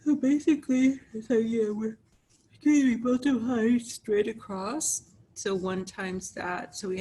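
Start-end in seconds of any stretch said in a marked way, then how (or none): 0.1-5.0 excited burst. Real, not acted. Teacher bursts out mid-explanation.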